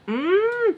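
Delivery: high, tight irked "mm"; imitated hum of annoyance. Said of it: "I was just so f***ing irked".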